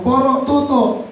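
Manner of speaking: high, drawn-out call of a nickname; calling out a name. Retold or imitated. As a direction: call him from across the yard. Mother calling son. (tawag na malakas)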